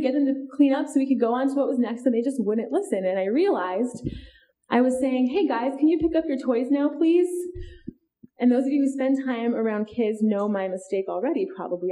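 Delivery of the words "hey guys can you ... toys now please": a sweet asking lilt rising higher on please; polite request. Retold or imitated. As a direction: ask nicely, like it's optional. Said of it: "I was making it a request".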